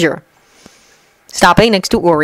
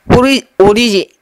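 startled awake; 3 semitones higher than usual. A narrator's reading. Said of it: "started awake and sat up hastily".

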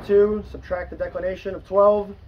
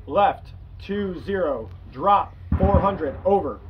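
calm radio call for fire; slower than usual. Shown as a demonstration.

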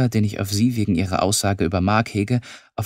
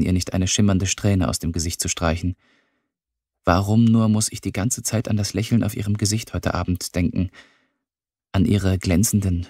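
ordinary delivery

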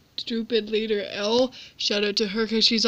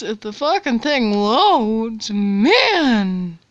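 frustrated; 4 dB louder, much slower than usual. Real, not acted. Frustrated waiting for loading.

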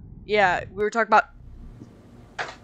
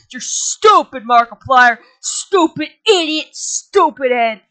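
put-on louder childish taunt, slowing at the end; mock him like a playground bully; 2 semitones higher, 5 dB louder, slower than usual. Spookum jeering at Mark after he dies.

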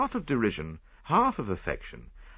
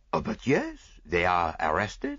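lightly voiced Belgian detective; a hint of a French-accented Poirot; Hercule Poirot. Poirot speaks in story.

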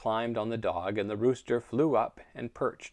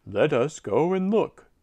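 eager donkey voice; 4 semitones higher, 5 dB louder than usual. Acted. Donkey urges others.

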